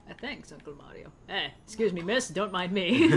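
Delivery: put-on hammy Italian accent, lightly done; a playful fake Italian accent; bad Italian accent. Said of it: "the real bad Italian accents".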